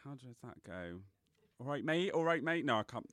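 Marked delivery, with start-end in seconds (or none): 1.6-2.6 tentative, softer Nottingham greeting; Nottingham accent. Shown as a demonstration. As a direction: test out a Nottingham accent quietly. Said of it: "try and do a Nottingham accent".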